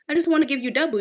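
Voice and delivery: emphatic repeat. Retold or imitated. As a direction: punch it out the second time. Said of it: "I heard God say".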